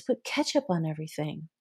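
embarrassed whisper, a bit fast; whispered confession. Retold or imitated. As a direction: whisper it like a guilty secret. Client's embarrassed ketchup confession.

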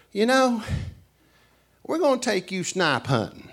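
high, sly, teasing invitation; sly country host. Retold or imitated. Tennessee host luring a tired guest into a snipe hunt. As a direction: lure the guest along with a grin. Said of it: "what they do is they say".

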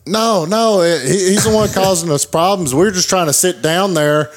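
high-pitched mock complaint; protesting innocence. Acts troublemakers protesting to the attendant.

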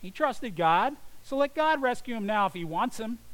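loud scornful taunt; mocking jeer. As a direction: sneer it out, daring God to act. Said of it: "also mocked Jesus".

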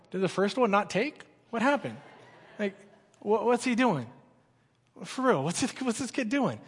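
soft, mock-bewildered asking around; puzzled aside. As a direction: imitate leaders quietly comparing notes. Youth leaders murmuring in puzzlement.

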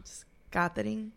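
"Catherine" as Spanish kah-teh-reen with a tapped r; Spanish pronunciation. Shown as a demonstration. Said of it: "How do you say Catherine in Espanol?".

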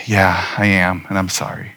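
quietly owning up; sheepish apology. Retold or imitated. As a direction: mumble it like a caught-out kid. Son admits fault, apologizes.

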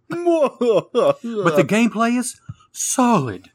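slow, high ghostly drawl; spooky voice. Pretend. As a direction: stretch it out like a ghost. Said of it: "in a spooky voice".

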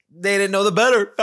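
loud, high crow breaking into laughter; gleeful gloating. Real, not acted. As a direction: crow it, then burst out laughing. Gloating over getting away with it.

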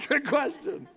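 mock-suspicious, breaking into a laugh; laughing repeat. Congregation imitated, laughing at the trick question. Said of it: "Some of you are like".

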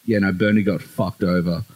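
low Aussie drawl. Retold or imitated. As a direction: lay on a thick, low Australian drawl. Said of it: "most Aussie drawl ever".

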